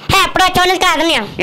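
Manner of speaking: Mahesh Babu voice. Pretend. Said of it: "Mahesh Babu గారి voice".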